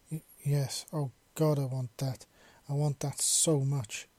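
halting, breathless yes; stammering. Acted. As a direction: stumble over the first words. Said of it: "Gregory stammered".

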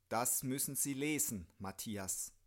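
put-on drunk, heavy-tongued slur; thick-tongued drunken voice; slurred drunk speech. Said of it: "artikulierte sie mit schwerer Zunge".

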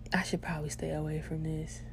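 soft, wary thought aloud; retold hesitance. Student weighing a bold woman's offer, quiet hesitance. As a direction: think it to yourself, quietly unsure. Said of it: "I was hella hesitant".

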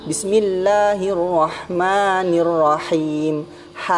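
slow chanted Bismillahirrahmanirrahim with airy mid-throat ha; correct recitation. Shown as a demonstration. Teacher demonstrating the letter H, slow recited Bismillahirrahmanirrahim. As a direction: stretch each long vowel, crisp breathy H in rahman and rahim. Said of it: "karena itu hurufnya H kan".

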